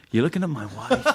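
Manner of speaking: put-on jealous husband voice through a laugh; mock jealous. Running joke about the polystyrene wife, mock jealousy. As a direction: accuse him with a laugh. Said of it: "he'd go".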